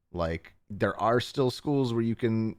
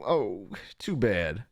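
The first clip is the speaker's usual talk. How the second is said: sarcastic; slower than usual. Real, not acted. Sarcastic retort to creators.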